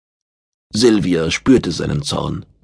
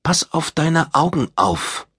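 higher, lightly voiced warning; warning woman; 8 semitones higher than usual. A narrator's reading. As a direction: warn him, voice raised for a woman. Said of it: "sagte Silvia warnend".

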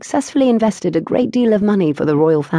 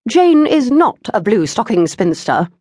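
insistent mother; 5 semitones higher, 4 dB louder than usual. A narrator's reading.

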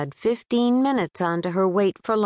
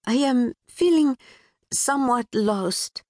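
put-on a touch of Pakistani accent; 6 semitones higher than usual. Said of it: "definitely wobbly".

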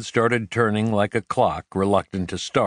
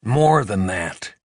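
hesitant slow; slower than usual. A narrator's reading. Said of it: "he needed a moment to find the words".

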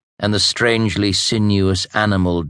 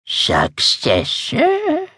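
sharp interest; much slower than usual. A narrator's reading. Truda pounces on word.

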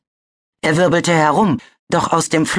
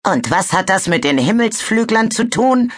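hissed; 6 semitones higher than usual. A narrator's reading. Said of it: "zischte Cirrus".

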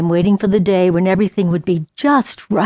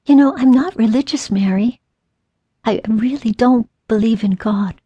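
doubtful; 3 semitones higher than usual. Retold or imitated. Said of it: "she said rather doubtfully".

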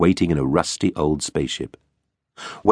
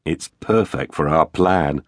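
slow, sly grin in the voice; crooked grin; 3 semitones lower, slower than usual. Acted. Tex tells Arx the rusty ship suits their plan, slow and sly. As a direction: savour the plan, grinning. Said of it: "with a crooked grin".

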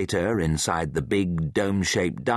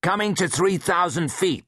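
radio voice; 11 semitones higher than usual. Acted. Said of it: "Austin's voice crackled from the wall-mounted speakers".

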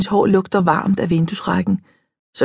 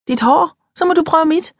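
much higher, bright eager offer; 11 semitones higher than usual. A narrator's reading. Mariam eagerly offers to swap hair, excited.

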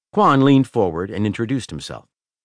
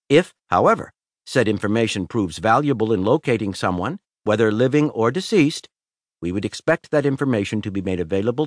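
lightly voiced fussy lawyer, a bit higher; a touch of a prim lawyer laying down terms; hint of a nervous lawyer's formal pitch; lawyer Quan; 4 semitones higher than usual. Lawyer Quan's formal speech.

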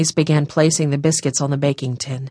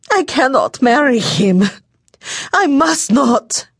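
sobbing; 5 semitones higher than usual. A narrator's reading. Daughter refusing to marry Jean, building sobbing despair. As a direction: choke it out between sobs. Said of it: "The sobs seemed almost to choke her".

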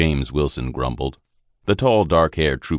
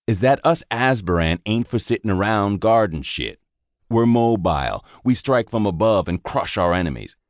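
a bit higher, gruff and disgusted; bitter sergeant rant; 3 semitones higher than usual. Acted. Sergeant ranting to the private about guard duty, fed up. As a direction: vent about the wasted unit.

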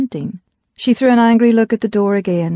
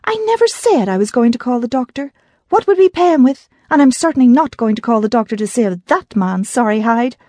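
louder, heated retort to her brother; furious; 4 semitones higher, 3 dB louder than usual. Acted. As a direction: snap back, blood boiling. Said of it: "her blood pumping furiously".

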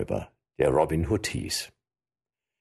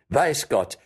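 triumphant; 9 semitones higher than usual. Acted. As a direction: crow about the win. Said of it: "rief Robin".

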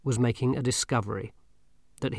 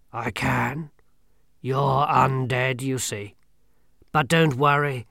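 grim reaper voice. Acted. Death speaks.

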